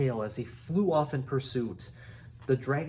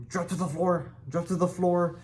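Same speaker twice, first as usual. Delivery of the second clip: loud, higher barked order; commanding yell; 5 semitones higher, 3 dB louder than usual. A narrator's reading. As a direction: chief yelling at dragon. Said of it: "yelled Stoik".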